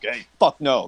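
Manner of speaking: low, straight-faced refusal; serious refusal. Acted. Turning down the party's loyalty oath, serious refusal. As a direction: turn them down in earnest, pitched low. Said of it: "I wouldn't have, like, really been like".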